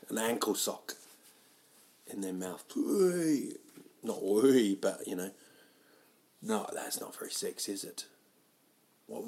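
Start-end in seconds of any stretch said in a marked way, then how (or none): none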